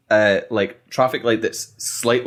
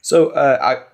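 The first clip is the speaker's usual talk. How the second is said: salesman voice. Pretend. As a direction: pitch it like a keen salesman. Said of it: "salesman voice on".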